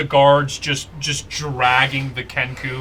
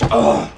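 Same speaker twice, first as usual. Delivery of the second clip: wounded "ugh"; pained grunt; 4 dB louder than usual. Acted. Game master acts the Kenku shot in the lung, pained. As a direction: grunt as if hit in the chest. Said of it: "And he goes".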